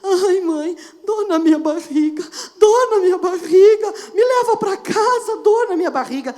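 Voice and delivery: put-on high, loud whimpering child pleading to go home; a little girl faking a tummy ache, half crying; whiny sick child. Mother mimics daughter at school door: high whiny crying. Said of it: "a guria".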